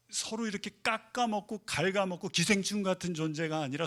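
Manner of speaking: normal talking voice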